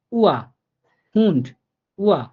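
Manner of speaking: উয়া and হুন্ড with a pure short উ sound; German Uhr and Hund with a rounded u; German U as Bangla উ. Shown as a demonstration. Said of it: "রসা উ এর মতো করে উচ্চারিত হবে".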